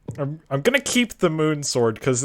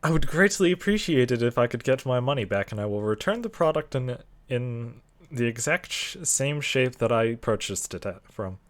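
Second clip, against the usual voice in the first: customer service voice; 4 semitones lower, 6 dB quieter than usual. Acted. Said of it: "I'm pulling out the customer service voice".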